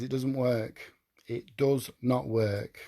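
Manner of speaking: quiet, slow, heavy with emotion; emotional. Real, not acted. Vlogger tells viewers self-will failed him, quiet and emotional. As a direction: let it sink, the words weighed down. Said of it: "I'm sorry it's been emotional".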